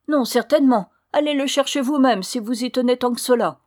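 loud, high, defiant answer; angry retort. A narrator's reading. Daughter answering back to her mother, angry and defiant. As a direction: refuse indignantly.

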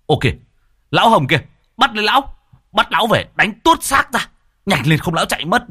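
high, loud call to grab him; urgent shout. Acted. Young villager spots Hồng and shouts to seize him. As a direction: yell to the others before he escapes.

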